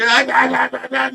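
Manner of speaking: high yelping ah ah ah; mock panicked yelps. Husband retelling wife's freakout, high yelps. Wife screaming when towel moved.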